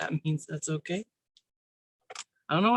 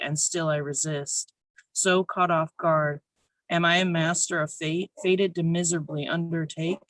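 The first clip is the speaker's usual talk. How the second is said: measured, earnest spoken word delivery; spoken word poem. Acted. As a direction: read your poem to a small room. Reads own poem aloud.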